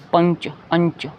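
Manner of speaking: "पंच" with a clear n; "पंच" said apart like panch; anusvara as n. Shown as a demonstration. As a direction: sound the n before ch in "अंच". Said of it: "कहीं पे अन की".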